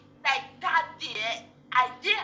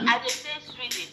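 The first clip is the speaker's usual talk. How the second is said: Nigerian Pidgin accent. Real, not acted. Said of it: "because of your accent".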